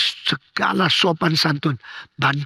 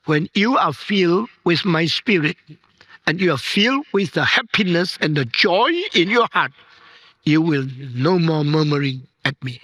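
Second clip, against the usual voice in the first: voice of God. Acted. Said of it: "Tuhan berkata".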